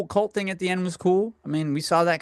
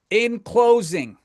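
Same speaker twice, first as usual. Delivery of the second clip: mock formal; 6 semitones higher, 4 dB louder, much slower than usual.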